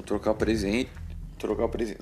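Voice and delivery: hiccuping mid-phrase; fighting back a hiccup; suppressing hiccups. Real, not acted. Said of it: "Nossa, tô com um soluço".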